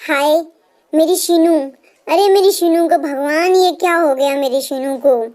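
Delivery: mother crying out for her lost daughter, mild wail; wailing in grief. Acted. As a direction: cry out in grief, understated. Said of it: "तेज रोती है, चिल्लाती है".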